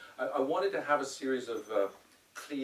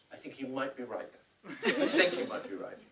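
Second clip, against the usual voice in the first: put-on Scottish accent; 3 semitones higher, 4 dB louder than usual. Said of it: "And in his Scottish accent".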